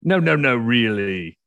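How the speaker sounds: can't believe a posh guest farms; incredulous Brit. Retold or imitated. English neighbours doubting Oklahoma farmer, incredulous. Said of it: "people would go".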